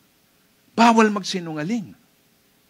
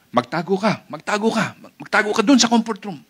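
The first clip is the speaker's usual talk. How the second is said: mock-urgent plea, building higher; urgent warning; 4 semitones higher, faster than usual. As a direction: warn a friend to hide, speeding up. Acted urgent warning to hide. (nagmamadaling babala, kunwaring natataranta)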